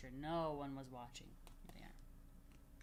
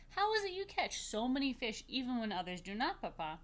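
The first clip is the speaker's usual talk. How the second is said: put-on curious girl; 5 semitones higher, 6 dB louder than usual. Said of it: "Raquel asked".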